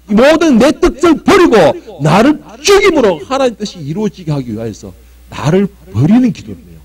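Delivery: normal talking voice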